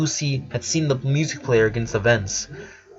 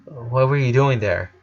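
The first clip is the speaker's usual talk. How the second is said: monotone. Acted. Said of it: "monotonously asked".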